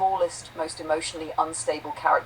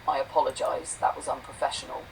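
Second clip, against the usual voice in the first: regaining composure; 3 semitones lower than usual. Acted. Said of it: "trying to regain composure".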